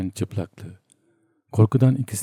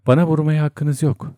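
higher-pitched, mildly shouted protest; narrator's contained yell, pitched up; 6 semitones higher than usual. A narrator's reading. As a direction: cry out in protest at being hit, half-raised. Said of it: "diye bağırdı".

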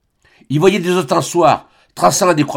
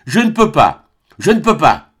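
a touch louder, understated final cries; a mild cry; 4 semitones higher, 4 dB louder than usual. Acted. Serge refusing Albine with a mild final cry. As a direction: let his last refusal break out a little. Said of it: "il jeta ses cris suprêmes".

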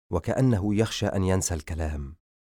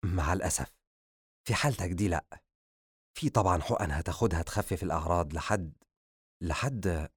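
sorrowful doctor; 5 dB quieter than usual. A narrator's reading. Doctor admitting there is no cure, sorrowful. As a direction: trail off unable to finish.

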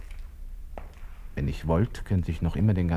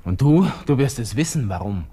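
angry outburst; 4 semitones higher, 5 dB louder than usual. Acted. Cursing the conductor in his head.

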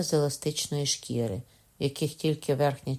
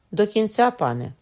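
loud, higher call to the judge; loud report; 6 semitones higher, 6 dB louder than usual. A narrator's reading. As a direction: announce it firmly for the room. Executioner reports loudly to judge.

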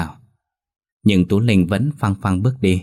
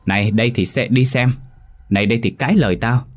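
teeth-gritting rage; 3 semitones higher than usual. Acted. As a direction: scold her through gritted teeth, speeding up near the end. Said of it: "nghiến răng nói".

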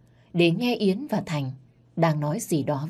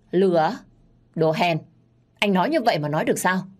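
scornful sneer; 2 semitones higher, 4 dB louder than usual. Acted. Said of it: "cười khẩy".

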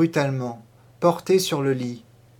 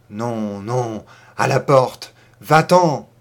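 lower, then a shouted va-t'en; furious dismissal; 4 semitones lower, 5 dB louder, slower than usual. Acted. Old mistress driving the maid out of her house. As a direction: throw her out with a yell. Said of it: "criait-elle".

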